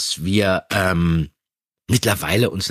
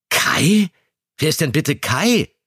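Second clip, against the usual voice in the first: higher, bewildered question; baffled that anyone named Kai exists; puzzled; 5 semitones higher, slower than usual. Acted. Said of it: "Fragte Peter verwundert". (verwundert, deutlich höher)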